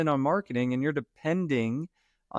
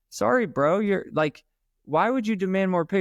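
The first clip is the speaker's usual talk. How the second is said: hammed-up scolding of a friend, pitched way up; animated mock scolding; 7 semitones higher than usual. Retelling telling off a friend.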